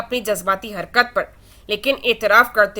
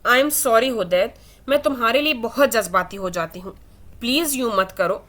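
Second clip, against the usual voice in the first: tearful plea. Acted. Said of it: "آئلہ کے آنسو".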